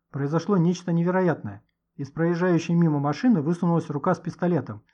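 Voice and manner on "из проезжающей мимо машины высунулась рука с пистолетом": usual speaking voice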